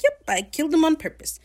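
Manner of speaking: high, loud mock boast; mock bravado. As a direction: fake the confidence. Steed bluffing to the crew.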